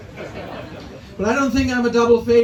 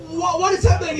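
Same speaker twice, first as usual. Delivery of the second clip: higher, baffled "What, what is happening?"; bewildered aunties; 6 semitones higher, faster than usual. Retold or imitated. Vietnamese aunties confused by the crossing, higher and baffled. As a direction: sound lost and alarmed. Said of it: "They're like".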